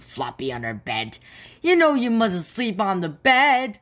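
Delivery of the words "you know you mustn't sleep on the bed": high, louder telling-off; cross scolding. Acted. Biff finding Floppy on her bed, cross scolding. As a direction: scold the dog sharply.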